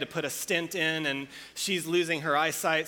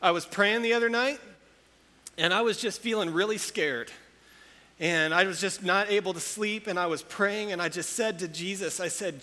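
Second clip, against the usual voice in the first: grandma's voice; 4 semitones higher than usual. Retold or imitated. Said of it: "And, and she's like".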